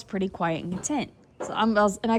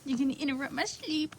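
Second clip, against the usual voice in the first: soft, whispered sleepy-horse complaint; horse's voice; 7 dB quieter than usual. Retold or imitated. Vlogger voices the horse whose sleep is interrupted, whispering. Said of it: "Or she goes".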